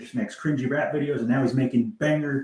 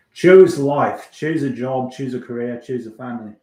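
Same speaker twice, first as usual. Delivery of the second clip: put-on Trainspotting recital in Scottish accent, loud first line fading; 8 dB louder than usual. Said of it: "I just watched Trainspotting recently".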